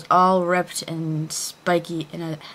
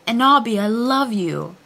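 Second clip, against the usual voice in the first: hammy stage actor; 4 semitones higher, 4 dB louder than usual. Acted. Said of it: "he shouted sadly".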